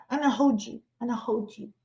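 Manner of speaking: soft little toddler plea, lightly imitated; baby talk. Toddler reaching up to mama, imitated baby talk. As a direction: coo it small and soft like a baby. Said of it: "when your babies used to say that".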